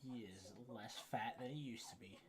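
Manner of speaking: hushed whispered aside. Real, not acted. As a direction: whisper it behind his back. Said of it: "whispered aside about friend".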